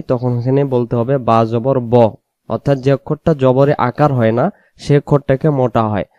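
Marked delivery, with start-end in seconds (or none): 1.2-2.1 বা জবর ব with a thick, rounded "o"; heavy rounded vowel. Shown as a demonstration. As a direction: say ব full and heavy, not an open "a". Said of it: "মোটা করে বলতে চাই".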